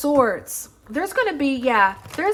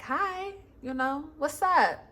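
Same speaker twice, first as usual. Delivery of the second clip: high, light, breezy greeting; butterfly; 3 semitones higher, 4 dB quieter, slower than usual. Acted. Butterfly greeting the scorpion in the story, high and light. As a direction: chirp a friendly hello. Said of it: "the butterfly ... was like".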